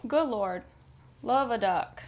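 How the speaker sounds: slight Southern accent slipping in. Real, not acted. Sewer who watched too much True Blood, slight Southern accent. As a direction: exclaim with a light Southern twang. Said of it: "That's where the Southern accent comes from".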